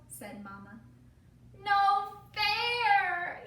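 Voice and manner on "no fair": loud, higher sung-out protest; yelled. Acted. Emmy yelling her protest at Mama. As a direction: wail it like a cheated kid. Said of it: "yelled Emmy".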